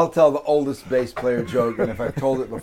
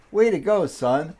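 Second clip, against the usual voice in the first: lightly voiced dad, higher on the praise; a touch of fatherly pride, pitched up; proud dad; 5 semitones higher than usual. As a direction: give a mild dad's cheer. Proud dad praising his kid in joke.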